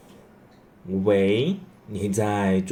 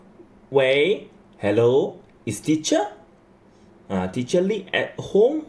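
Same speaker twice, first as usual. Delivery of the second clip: phone question; 3 semitones higher than usual. Acted. Translating a phone call question.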